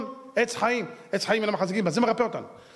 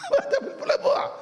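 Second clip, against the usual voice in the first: high, strained mock-angry yell; exasperated cry; outraged shout. Real, not acted. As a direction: shout them down in disbelief. Scolding an imagined art buyer.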